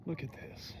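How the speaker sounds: soft, unvoiced whisper of wonder; awed whisper. Real, not acted. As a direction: hush it like you can't believe it. Awed at the view.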